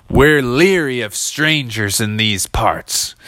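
slow suspicious drawl; a wary frontier local, slow; slow western townsman; cowboy local. Acted.

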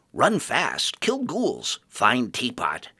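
eager little creature listing its deeds; proud dredger, then drawn out; simple dredger voice. Acted. Dredger boasts in broken speech.

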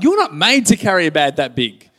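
high, loud, comic protest; playful incredulous dad; mock disbelief. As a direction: exclaim it in exaggerated amazement. Mock disbelief at child's huge bag.

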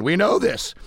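scratchy, breaking voice. Real, not acted. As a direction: voice cracking, scratchy. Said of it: "there goes that scratchy voice again".

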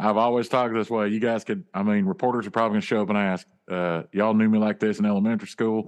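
defensive Southern rock-and-roll-singer-style drawl. Acted. Telling friends he always talked so, in a famous singer's drawl. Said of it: "you don't have a drawl".

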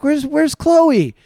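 high, drawn-out worried call; retold panicky question; imitated freaking out. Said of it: "She starts freaking out".

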